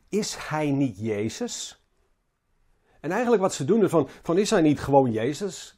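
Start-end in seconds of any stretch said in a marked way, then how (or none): 0.1-1.8 slow, understated cynical question; cynisch. Retold or imitated. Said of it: "met cynisme". 4.4-5.7 mildly belittling question; denigrerend. Retold or imitated. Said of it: "Ze spreken wat denigrerend over hem".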